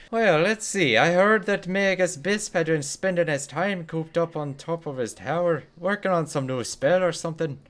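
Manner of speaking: high, chatty shopkeeper in a put-on British accent; shifting British accent. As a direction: gossip away in a breezy British lilt, teasing. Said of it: "had a weird little shift in accent there".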